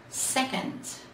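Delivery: soft unvoiced whisper. A narrator's reading. Big Bear whispers the word on the bin, softly. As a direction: breathe it out secretly. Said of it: "Big Bear whispered".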